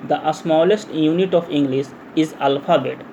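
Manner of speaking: very slow, word-by-word dictation; drawn-out words at note-taking speed. Shown as a demonstration. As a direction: read it out slowly for students to copy down. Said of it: "धीरे धीरे मैं बोलूँगा".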